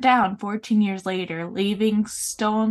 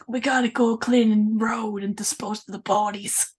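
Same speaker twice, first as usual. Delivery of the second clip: badly faked New York mobster accent; mock New York gangster accent. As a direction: put on a clumsy New York mafia accent. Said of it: "your attempt on a New York accent".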